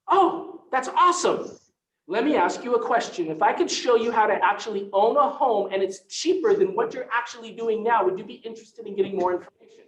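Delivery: imitating an eager realtor hooking a renter; mock salesy agent. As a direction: ham up a pushy agent's opener. Mocking a pushy salesy agent pitch.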